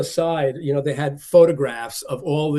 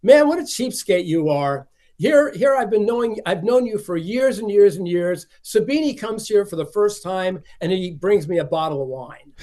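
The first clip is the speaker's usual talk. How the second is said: teasing; 5 semitones higher, 3 dB louder than usual. Retold or imitated. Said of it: "always teasing Dick Ban".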